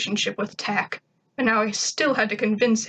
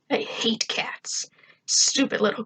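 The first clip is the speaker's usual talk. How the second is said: whispered disgust. A narrator's reading. Narrator's private disgust.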